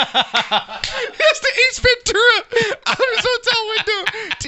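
laughing through the words; giggling while talking. Real, not acted. Laughing while describing photo.

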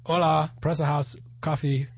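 mock Spanish order at a café. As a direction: pretend to order coffee in Spanish. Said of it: "That is Spanish".

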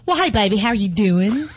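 play-acting a Texan greeting in Texas accent. She shows how she talks in Texas, Texas accent. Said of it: "if I'm in Texas".

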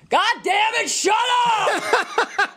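high, strained mock shout; imitated angry yell. Co-host mimics dad silencing laughing girl, angry mock yell. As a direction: imitate him blowing up at the kids. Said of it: "I heard you yell before".

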